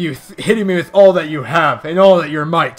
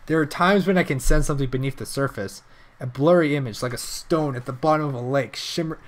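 low, soft reflective reading; pensive game character; 4 semitones lower, 8 dB quieter than usual. Acted. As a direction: recite it quietly and thoughtfully. Reads character's lines aloud.

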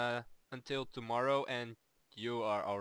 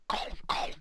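whispered catchphrase. Pretend. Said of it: "it's our catchphrase".

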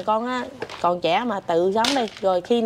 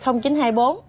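phone number called out; 3 semitones higher than usual. Real, not acted. Reading phone number aloud.

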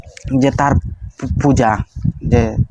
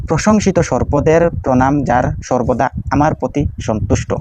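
prayer recitation. Shown as a demonstration.

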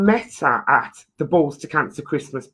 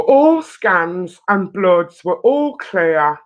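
moved, slow reading; 3 semitones higher, slower than usual. Real, not acted. Reading good news, emotional.

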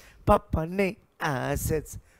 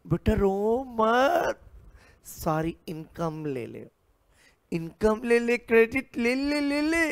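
papa coaxing; 5 semitones higher than usual. Acted. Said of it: "पापा".

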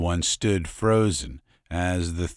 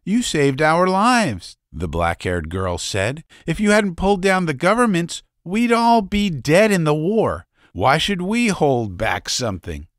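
put-on high, bright-pitched girl voice, louder; earnest young girl; 10 semitones higher, 5 dB louder than usual. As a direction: plead gratefully with the strangers. Black-haired girl pleading.

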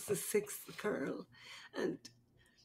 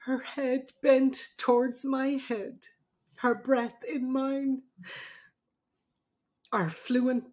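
poem reading; 2 semitones higher than usual. Acted. Reads a poem aloud.

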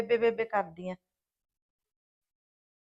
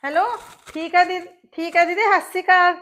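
sugary fake greeting; 6 semitones higher, 6 dB louder than usual. Daughter-in-law greets sister-in-law sweetly.

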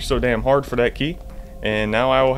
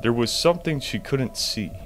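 slow, measured reading; slow reading of an eerie note; reading a note aloud. Shown as a demonstration. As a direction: read the clue slowly and gravely. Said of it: "Oh, another note".

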